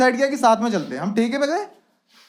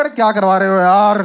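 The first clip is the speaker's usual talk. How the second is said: loud, exasperated complaint, pitch dropped; fed-up protest; 4 semitones lower, 5 dB louder than usual. Acted. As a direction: protest loudly like you're fed up. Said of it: "धूप का mood खराब हो गया". (झुंझलाकर ज़ोर से शिकायत)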